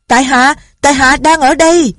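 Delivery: glad loud shout. Acted. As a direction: shout back, overjoyed to be found. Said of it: "cả mừng la lớn". (reo lên thật to, mừng rỡ)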